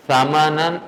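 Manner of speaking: سامانن begun with a short, light s; misread word. Shown as a demonstration. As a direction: mistaken reading of سامانن. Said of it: "میں نے غلط پڑھ دیا".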